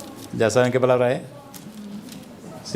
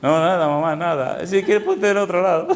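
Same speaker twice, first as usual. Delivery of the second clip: laughing reply. Retold or imitated.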